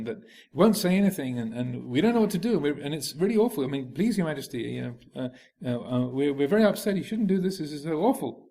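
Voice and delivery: distressed courtiers begging the king for help; in a lather. Acted. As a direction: blurt out the news to the returning king. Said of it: "All in a lather and, and upset".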